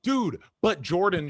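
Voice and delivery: mild mock protest; protesting kid. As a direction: plead your innocence. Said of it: "I was like".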